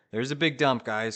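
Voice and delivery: loud sudden market callout; rapid hyped trader panic. Real, not acted. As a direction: shout the drop as it happens.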